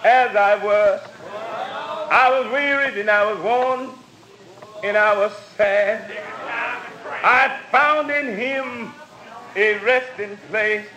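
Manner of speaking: chanted gospel preaching. Acted. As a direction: preach it in a singing cadence. Preacher testifies, chanting cadence.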